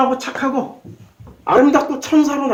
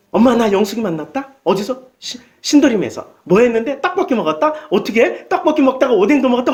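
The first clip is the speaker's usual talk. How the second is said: lightly voiced chatty girl and mother; playful back-and-forth, gossip style; a hint of a giddy teen telling mom; acted chat with mom. Daughter chats with mom, acted dialogue.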